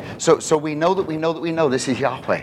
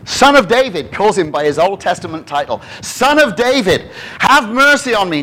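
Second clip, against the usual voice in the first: higher, louder pleading cry; shouting beggar; 5 semitones higher, 5 dB louder than usual. Retold or imitated. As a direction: call out to Jesus from the roadside. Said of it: "he starts shouting".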